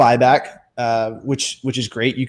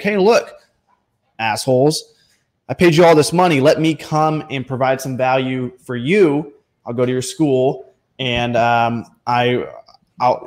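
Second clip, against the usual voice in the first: rude mock demand. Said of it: "you're not gonna say it like that".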